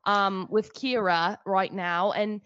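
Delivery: put-on high-pitched rambling British accent; hammed-up English accent, pitched well up; Russell Brand. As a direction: do a British comic's impression, rambling and awkward. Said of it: "the accent is on point".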